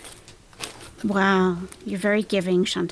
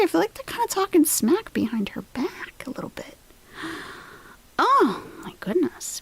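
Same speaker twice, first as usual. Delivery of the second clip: gossipy whisper; 8 semitones higher, 3 dB quieter than usual. Real, not acted. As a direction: hush it like sharing a secret. Gossiping behind her back.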